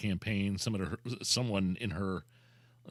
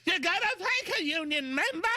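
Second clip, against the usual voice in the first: Foghorn Leghorn impression; 4 dB louder than usual. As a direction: ham up a loud cartoon Southern rooster. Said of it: "sounds very similar to Foghorn Leghorn".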